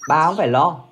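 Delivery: loud, high, furious stammering; husband yells at wife to leave, rising to a fast shout; angry shout. Acted. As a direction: blow up and tell her to go alone.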